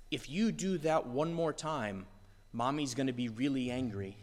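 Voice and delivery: a hint of a weary mom warning her child; mother mildly warning her misbehaving child; mild parent warning. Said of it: "the parent comes and looks at the child and says".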